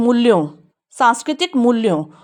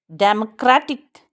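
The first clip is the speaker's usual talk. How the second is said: democratic stretched very slowly, each syllable clear; slow syllable-by-syllable model; much slower than usual. Shown as a demonstration. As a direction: draw out democratic for the class. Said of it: "इसको aspirate करेंगे".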